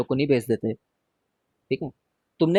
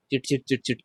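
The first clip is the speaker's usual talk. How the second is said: quick staccato crackle; clicky sputter noise; imitated crackling; 3 semitones lower, 5 dB quieter than usual. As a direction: mimic the tiny snaps of electrical sparking. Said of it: "automatically आवाज आती है".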